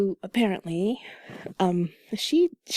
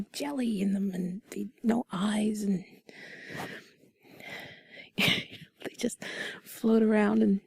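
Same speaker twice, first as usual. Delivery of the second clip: soft breathy whisper, close to mic; sultry narrator; 5 dB quieter than usual. Acted. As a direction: whisper it like sweet nothings. Whispered intimate chat about ocean.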